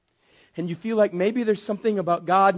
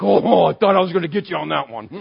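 laughing mock taunt; 7 dB louder than usual. Satan mock-taunting, retold.

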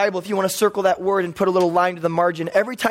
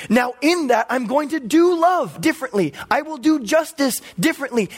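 emphatic God's rebuke; 3 semitones higher than usual. Acted. God tells people he won't fit their paradigm, emphatic. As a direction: preach it as God setting listeners straight. Preacher voices God confronting listeners.

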